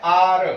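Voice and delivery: आर drawn out slowly; pronunciation demo of आर. Shown as a demonstration. Teacher showing pupils the sound of the word, आर pronounced slowly. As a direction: say आर slowly as a model. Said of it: "जब इसके pronunciation पर जाते हैं".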